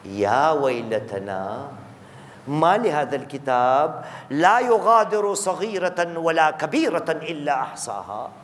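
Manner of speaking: slow, drawn-out Arabic recitation; measured scriptural recital; Quran recitation. Acted. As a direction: recite the verse slowly, stretching the vowels. Recites Quran verse slowly.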